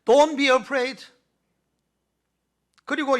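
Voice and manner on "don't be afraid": very slow, deliberate English line; solemn slow English; slow English quote. Shown as a demonstration. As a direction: spell out the English words slowly. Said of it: "영어를 잘 안 쓰려고 합니다마는".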